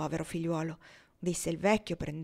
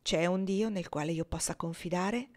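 bitter despair. Acted. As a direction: ask with a mild touch of despair. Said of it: "con accento di sì amara disperazione".

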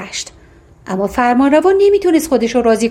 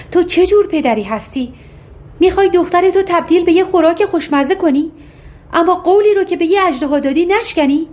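higher, anguished pleading; distressed queen; 6 semitones higher than usual. Acted. Queen pleads with her husband for their daughter, anguished and higher. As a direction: beg with a rising, desperate voice.

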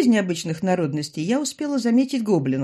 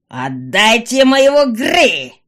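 loud, very slow, frowning; angry demand; 5 semitones higher, 11 dB louder, slower than usual. A narrator's reading. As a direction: bellow it with a frown. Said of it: "она нахмурила брови".

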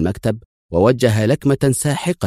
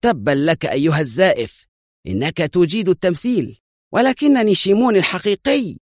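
high, scornful accusation; furious, climbing higher to the end; angry shout; 11 semitones higher than usual. A narrator's reading. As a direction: spit it at the impostor. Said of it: "صاح الرجل الآخر في غضب".

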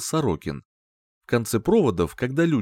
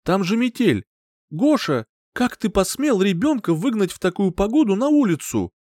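higher, louder scolding; angry reproach; 10 semitones higher, 4 dB louder than usual. A narrator's reading. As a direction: rebuke him for throwing out her child. Mother scolding partner.

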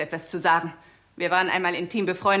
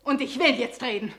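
defiant insistence; 5 semitones higher than usual. Acted. Confession showdown, defiant.

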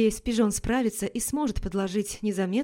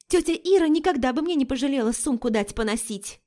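blurted; 5 semitones higher than usual. Acted. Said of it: "выпалила Лика".

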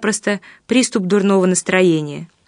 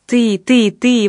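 a touch louder, building "ты, ты, ты"; exclaiming; 2 semitones higher, 3 dB louder, much slower than usual. A narrator's reading. Pavel accusing Olesya of selfishness, mild exclaim. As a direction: jab each "ты" a little harder. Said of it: "воскликнул я".

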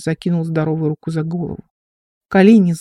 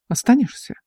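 ingratiating plea; 6 semitones higher than usual. A narrator's reading. Wounded man coaxing the girl to stay, higher wheedling ask. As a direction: coax her to stay. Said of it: "заискивающе попросил он".

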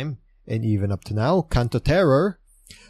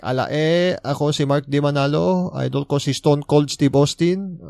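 quick, higher Batangueño Tagalog accent, imitating the fan; 4 semitones higher, 3 dB louder than usual. Imitating fan's Batangueño self-introduction to the crowd, in Batangueño accent. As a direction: do Mark's Batangueño intro with gusto. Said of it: "He put on the best Batangueño accent".

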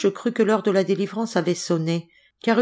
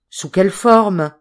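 anxious question; 7 dB louder, slower than usual. A narrator's reading. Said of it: "demandai-je avec anxiété".

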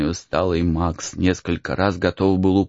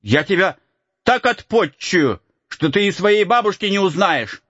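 threat; 10 semitones higher than usual. Acted. Boy threatens Max.

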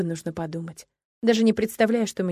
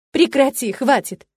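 shout to stop; 4 semitones higher, 5 dB louder, slower than usual. Acted. Girl in pain pushes him off.

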